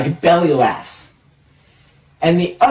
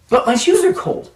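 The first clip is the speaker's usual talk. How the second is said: put-on whiny kid protest; 12 semitones higher than usual. Kid protesting to scoutmaster, again.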